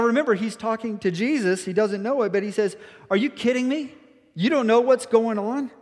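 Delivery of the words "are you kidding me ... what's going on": high, incredulous "are you kidding me"; incredulous scoff. Retold or imitated. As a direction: scoff at him in disbelief. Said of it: "how that could have been insulting to Jesus".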